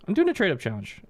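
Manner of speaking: put-on polite kid. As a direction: ask it sweetly like a nice kid.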